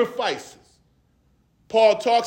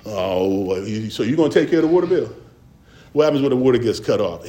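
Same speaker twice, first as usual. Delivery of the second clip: put-on folksy old sitcom dad; 9 semitones lower, much faster than usual. Parent voiced mocking son.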